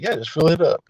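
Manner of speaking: casual, greedy ask; mock stingy. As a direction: play the stingy guy, offhand. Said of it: "been stingy and be like".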